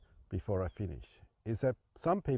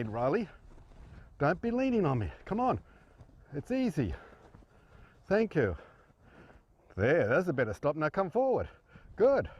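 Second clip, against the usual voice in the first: higher, lively coaxing to a horse, firm but kind; 6 semitones higher than usual. Real, not acted. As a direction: coax the horse forward with upbeat commands. Coaching a horse aloud.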